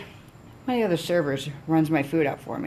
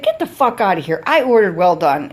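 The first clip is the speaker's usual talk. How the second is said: indignant customer voice; mock angry snap; 2 semitones higher, 6 dB louder than usual. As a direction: bark it at the waiter. Wife snapping at server.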